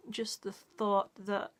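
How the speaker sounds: slow, hushed whisper, choked with feeling. Real, not acted. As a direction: let it drop to a slow whisper as the thought hits. Emotional talk about a mother.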